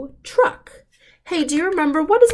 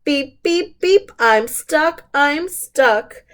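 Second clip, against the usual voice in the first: mock alarm; 4 semitones higher, slower than usual. Stuck truck honks for help.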